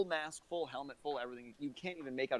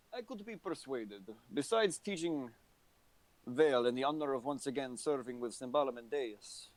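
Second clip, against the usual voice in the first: put-on lightly accented old soldier, weighing an offer; deliberate start, a hint of a veteran negotiating. Game master voices old soldier Horace.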